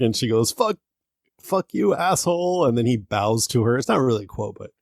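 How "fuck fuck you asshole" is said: high mock yell of a furious woman; imitating woman yelling. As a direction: squeal it up high like an angry woman. Woman yelling during fight.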